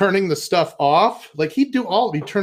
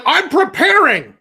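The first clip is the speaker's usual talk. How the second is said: dad's voice, higher and slow; mock dad; 10 semitones higher, 4 dB louder than usual. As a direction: draw it out like a solemn dad. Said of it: "he's like".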